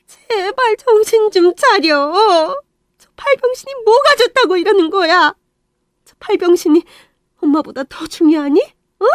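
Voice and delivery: 느리고 높게 다그치는 엄마; 붙잡고 매달리듯 다그쳐. Acted. Mother pleads with son. (떠나려는 아들을 붙잡는 엄마, 애원 섞인 분노)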